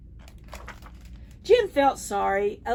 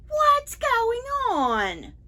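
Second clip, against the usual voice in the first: high, slow, puzzled monkey voice; confused monkey; 13 semitones higher, 3 dB louder, slower than usual. Acted. Confused monkey Jim asking what is going on. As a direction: draw it out high and baffled. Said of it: "Jim was confused".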